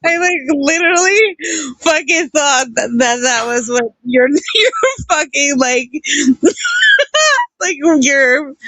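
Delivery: words broken by giggles; half-laughing through the story; laughing while talking. Real, not acted.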